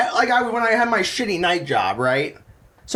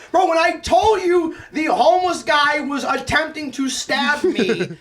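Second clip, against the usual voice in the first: excited insistence; 5 semitones higher than usual. Real, not acted. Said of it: "I mean it".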